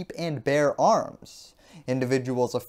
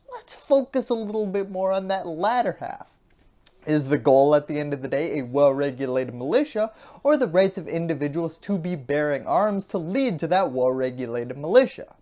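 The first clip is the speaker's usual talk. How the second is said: mock conservative voice. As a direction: play a smug conservative reining someone in. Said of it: "conservatives are gonna say".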